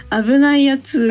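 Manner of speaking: lightly voiced catchphrase; quoting a clip. Quoting a friend's catchphrase to the host, lightly voiced. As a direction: toss off the quoted line. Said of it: "太一くんのあの音声ないの？".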